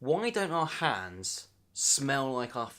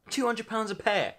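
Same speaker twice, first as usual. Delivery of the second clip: much higher, outraged disbelief; 8 semitones higher than usual. Acted. Repeating the price to viewers, disbelieving. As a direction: squeak the price in shock.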